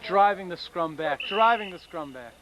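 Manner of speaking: lively sports commentator voice; play-by-play commentary. Pretend. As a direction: call the match like live TV. Mock rugby play-by-play.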